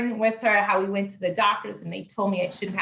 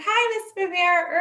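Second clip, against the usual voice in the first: doctor's voice; 9 semitones higher than usual. Retold or imitated. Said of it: "she's like".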